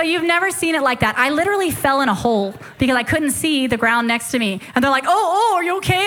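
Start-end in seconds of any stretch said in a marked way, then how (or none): 5.1-6.1 imitated alarmed concern. Villagers react to her fall.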